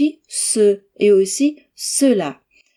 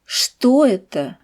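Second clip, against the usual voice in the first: Что raised then falling, slow; stress on Что; 3 semitones higher, slower than usual. Shown as a demonstration. Teacher to students, slow stress on Что. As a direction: voice up on Что, down after. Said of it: "Écoutez et répétez après moi".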